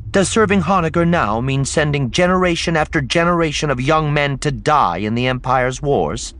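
high, loud questioning; public challenge. Acted. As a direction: challenge the ruler so the crowd hears. Leia challenges the dynast publicly.

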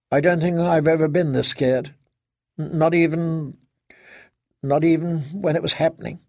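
lightly voiced fear, halting restarts; frightened daughter. Daughter admitting fear to her father, scared and halting. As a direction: confide the fear, faltering a little.

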